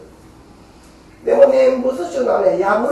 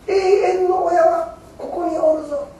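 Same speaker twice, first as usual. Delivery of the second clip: slow, higher, solemn voice of Amida; Amida's slow declaration; 8 semitones higher than usual. Acted. Preacher gives Amida's promise, slow and raised. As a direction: draw the promise out gently. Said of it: "阿弥陀様が".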